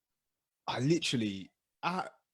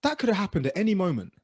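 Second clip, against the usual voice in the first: quick self-talk; 6 semitones higher, faster than usual. Retold or imitated. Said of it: "I said to myself".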